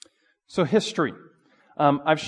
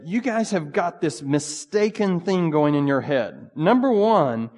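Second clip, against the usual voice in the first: stern author rebuke; 5 semitones higher, 4 dB louder than usual. Retold or imitated. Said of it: "and basically said".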